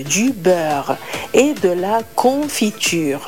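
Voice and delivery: slow dictation. Shown as a demonstration. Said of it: "زبدة ومربى".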